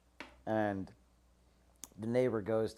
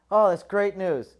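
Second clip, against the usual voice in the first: much higher and louder, slow delighted cry; mock rejoicing; 8 semitones higher, 11 dB louder, slower than usual. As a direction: overplay the relief. Neighbor rejoicing.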